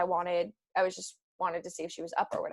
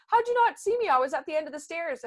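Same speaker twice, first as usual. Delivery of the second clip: high-pitched mock disbelief, easing down; imitating baffled dad; 7 semitones higher, faster than usual. Dad asks how she missed him on the stairs, mock bafflement. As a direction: act out dad's question, pitched up then settling. Dad's baffled question retold.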